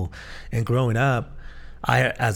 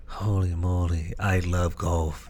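slow, lower, laughing amazement; a low laughing wonder at the first good shot; awed laughing delight; 4 semitones lower, 3 dB quieter, slower than usual. Retold or imitated. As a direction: breathe it out in delighted disbelief. First good golf hit, ecstasy.

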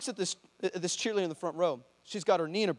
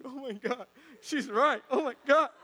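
amazed; 6 semitones higher than usual. Retold or imitated. Kids hear an accurate prophecy, imitated high amazement. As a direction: gasp it out high as an amazed kid.

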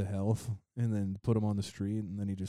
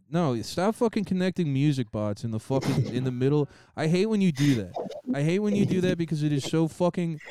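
loud, higher, exasperated rant; berserk rage; 3 semitones higher, 3 dB louder than usual. Acted. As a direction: blow up at the music bot. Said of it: "sorry for yelling and getting pissed and screaming".

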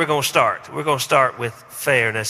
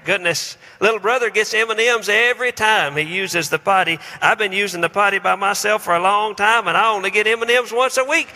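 put-on higher whiny child complaining, building; a six-year-old whining about fairness to a parent; 5 semitones higher than usual. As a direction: play a kid protesting injustice. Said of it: "have heard these words".

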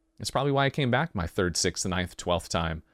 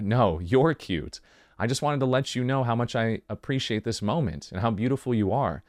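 tender; 3 semitones lower than usual. Acted. Lover answering the flattered partner, tender and low. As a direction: turn the compliment back gently, pitched down.

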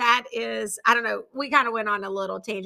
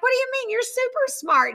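incredulous mom; 13 semitones higher than usual. Retold or imitated. Mom protesting, amused, to daughter.

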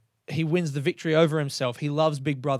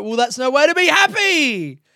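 mock cynical voice; 11 semitones higher, 6 dB louder than usual. Quoted cynical inner voice.

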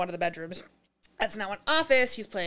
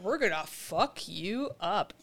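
slow, softer mock menace; slow threat; 6 dB quieter, slower than usual. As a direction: deliver an acted threat, word by word. Character threatens the kids.

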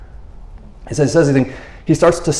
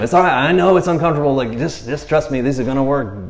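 reassuring Jesus. Retold or imitated. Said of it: "imagine Jesus' voice".

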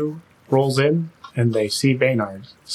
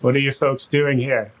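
put-on Irish accent. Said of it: "Now you're making me Irish".

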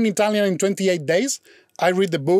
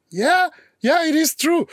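much higher, pleading yes; eager insistence; 9 semitones higher than usual. Retold or imitated. Boyfriend assuring his girlfriend it is true, high pleading insistence. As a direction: push it up high, begging to be believed.

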